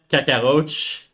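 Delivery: Cockroach in a light French accent. Shown as a demonstration. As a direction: say it like a Frenchman, Cacaroche. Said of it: "you need to say it in, in a French accent".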